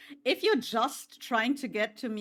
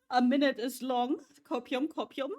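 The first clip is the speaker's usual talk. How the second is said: teasing mock echo, pitched up; mocking singsong; 3 semitones higher than usual. Real, not acted. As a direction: tease it back in a singsong. Mocking chat's claim.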